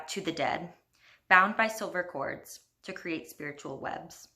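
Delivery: measured storybook poem recital, line by line; poetry reading. Acted. Poet reads her fairy-tale poem to listeners, measured recital. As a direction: read it as a poem, pausing between lines.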